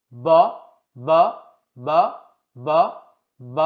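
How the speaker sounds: ব with lips together and hardly any air; B sound demo. Shown as a demonstration. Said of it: "গলায় যদি হাত দেন". (ঠোঁট মিলিয়ে কম বাতাসে ব উচ্চারণ)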